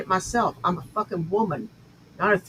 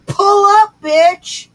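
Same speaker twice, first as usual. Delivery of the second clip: high, loud yelled dare; shouting challenge; 13 semitones higher, 11 dB louder, much slower than usual. Real, not acted. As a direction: scream it at the rival. Challenging rival to fight.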